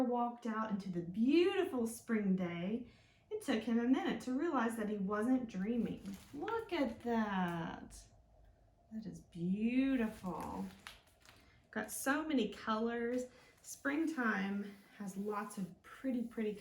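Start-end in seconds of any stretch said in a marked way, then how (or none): 6.3-10.7 slow, hushed wonder; gentle amazed delight; awed. Acted. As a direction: marvel at it slowly. Bear admiring spring.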